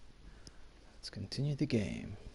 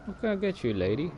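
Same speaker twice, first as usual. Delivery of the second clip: high mimic; 7 semitones higher, faster than usual. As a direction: parrot the vendor in a high voice. Echoing the vendor's line.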